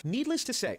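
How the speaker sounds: high-pitched mock British accent. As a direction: quote it in an amateur British accent. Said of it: "I'll do it in a British accent".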